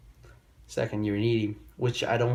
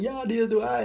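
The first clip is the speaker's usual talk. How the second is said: mock girl voice; 11 semitones higher than usual. Quoting the girl's reply.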